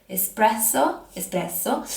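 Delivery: espresso in an English accent, rising at the end; English accent on Italian. Real, not acted. Trying out an Italian coffee word for viewers, in English accent. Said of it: "I always do the English accent with Italian words".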